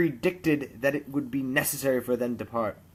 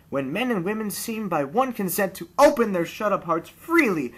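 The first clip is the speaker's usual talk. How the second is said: higher, heartfelt earnest plea; earnest nephew; 6 semitones higher, 4 dB louder than usual. A narrator's reading. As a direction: speak from the heart with rising conviction. Nephew's long speech voiced.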